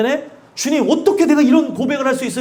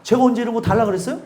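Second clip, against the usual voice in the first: quick mock retort; faster than usual. Preacher mimics today's world, fast and offhand. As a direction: rattle off the retort fast, a light imitation. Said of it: "요즘 세상이요?".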